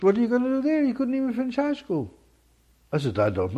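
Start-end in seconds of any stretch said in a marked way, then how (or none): 0.0-2.1 father scoffing. Retold or imitated. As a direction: play the scornful father, pitched way up. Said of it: "He said".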